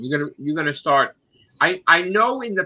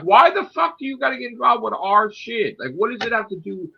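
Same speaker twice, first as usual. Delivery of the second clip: higher, louder exasperated rant; heated rant; 10 semitones higher, 4 dB louder than usual. Real, not acted. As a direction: vent like they crossed a line. Ranting about foreign politics.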